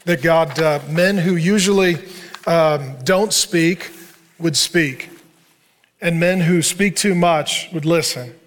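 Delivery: calm closing prayer to the group. Acted. Pastor praying over the men, steady and earnest.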